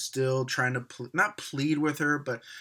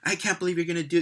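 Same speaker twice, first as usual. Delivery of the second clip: put-on whiny teen; 4 semitones higher, much faster than usual. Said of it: "Claire flips out".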